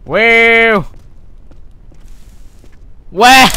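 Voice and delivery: surprised whoa, retry. Shown as a demonstration. Retrying his whoa for the viewers, held high. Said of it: "Let me try that again".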